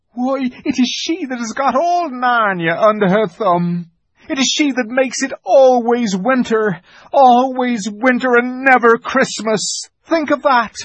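a fawn telling a dark truth; grave fawn. Acted. The fawn tells Lucy about the White Witch, grave.

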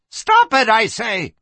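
very high, loud yell; shouted command. Acted. Madam orders the fighters to stop, shouted command. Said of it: "Her voice cut off".

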